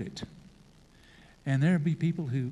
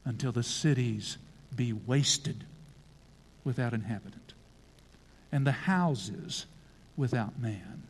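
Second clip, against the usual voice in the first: a hint of a solemn God pronouncing; the Lord's answer; 3 semitones lower than usual. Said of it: "And he answered".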